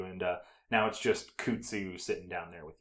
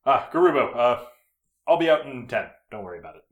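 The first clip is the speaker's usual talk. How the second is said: breezy boss; 3 semitones higher, 9 dB louder, faster than usual. Acted. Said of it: "looks up and goes".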